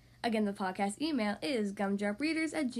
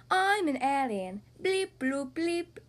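alien voice; 4 dB louder, slower than usual. Acted. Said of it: "she replies, laughing".

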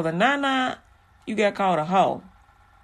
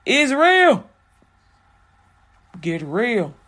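stern God. Retold or imitated. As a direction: lay down the law to the men. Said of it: "He's like".

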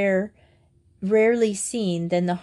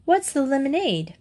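changed tone; 7 semitones higher than usual. Acted. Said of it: "changed her tone".

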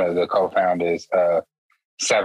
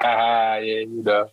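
mock laugh, pitched up; imitated laughing; 4 semitones higher than usual. Teasing a friend about his barber, imitated laughing brush-off. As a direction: imitate him laughing off the request. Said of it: "he just be, like, laughing".

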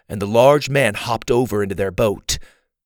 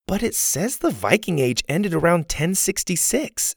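put-on higher-pitched girl reading out a guidebook; reading aloud; 7 semitones higher than usual. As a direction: read out facts in a higher child's voice. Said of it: "Susie read".

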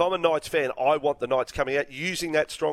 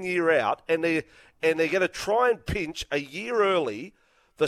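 fired up; 3 semitones higher than usual. Real, not acted. Host ranting for Newcastle to stand firm. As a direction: hammer each point home. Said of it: "getting fired up about this".

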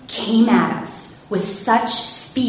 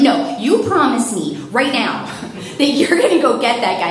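insistent demand; 5 semitones higher, 4 dB louder than usual. Retold or imitated. Caller demanding a promise.

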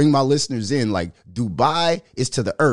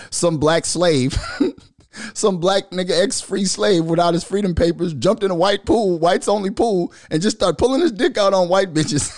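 mocking exaggeration; 6 semitones higher than usual. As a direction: ham up how the critics paint it. Mock exaggerated portrayal of critics' view.

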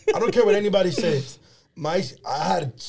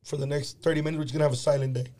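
mad teacher, retold; 5 semitones lower, 4 dB quieter, faster than usual. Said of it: "'Cause she was so mad".

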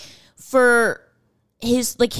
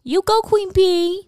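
higher, slow, hyped-up praise; hyped cheer; 11 semitones higher, 4 dB louder, slower than usual. Pretend. Hyping up an actress, playful high cheer. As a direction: cheer her on like a fan.

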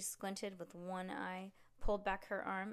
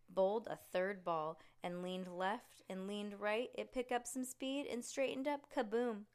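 usual speaking voice

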